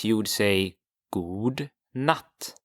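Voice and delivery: god natt said slowly as "goo nut"; teacher models good night for learners; Swedish god natt. Shown as a demonstration. Teacher says god natt slowly for students. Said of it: "So to say good night".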